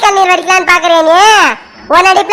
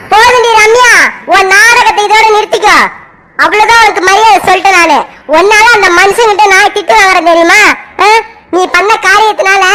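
angry scolding. Acted. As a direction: let the anger spill over at her. Mother scolding daughter angrily.

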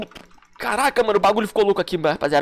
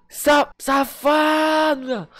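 drawn-out accusation; 4 semitones higher, much slower than usual. Real, not acted. Reaction to betrayal.

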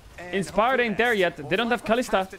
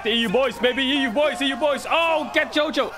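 higher-pitched, mounting excitement; excited cheering; 6 semitones higher than usual. Real, not acted. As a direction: cheer your team's play as it builds. Cheering a play live.

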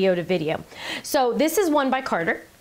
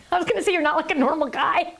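higher, amused teasing; laughing; 6 semitones higher than usual. Real, not acted. Wife teasing her husband on camera, laughing as she talks. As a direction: tease him while starting to crack up.

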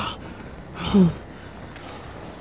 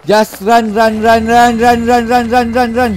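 urgent; 4 semitones higher than usual. Real, not acted. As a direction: push them to flee, word after word. Fleeing in horror game.

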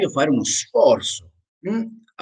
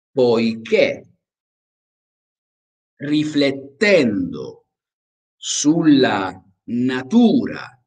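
slow, clear phrases with long pauses between; slow dictation with pauses; slower than usual. Shown as a demonstration. Teacher dictating phrase by phrase for repetition. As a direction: pause after each phrase for the class to repeat. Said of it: "Ok, continuamos".

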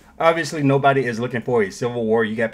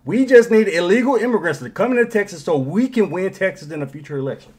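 sneering mock quote that bursts louder and higher; sarcastic mock federal voice; 6 semitones higher, 4 dB louder than usual. Commentator mocking the federal government, sarcastic outburst. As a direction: ham up the smug feds, then blurt it out. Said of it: "oh, we don't give a damn".

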